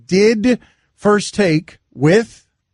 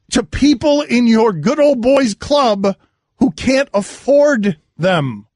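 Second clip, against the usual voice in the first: impassioned plea; 4 semitones higher, slower than usual. Real, not acted. Pleading with the commissioner.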